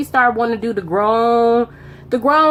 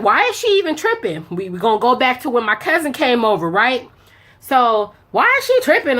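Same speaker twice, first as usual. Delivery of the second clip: high, acted outrage on phone; fake outraged call; 4 semitones higher than usual. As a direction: play-act an angry phone fight. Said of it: "I'm acting at this point".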